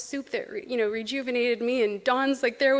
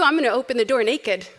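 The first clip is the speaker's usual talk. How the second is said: laughing through it; 5 dB louder than usual. Retold or imitated. Retold joke reply, laughing.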